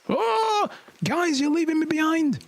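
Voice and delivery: calling to the gang as they run off without him; mock panic. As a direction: cry out as they leave you behind. Left behind while fleeing.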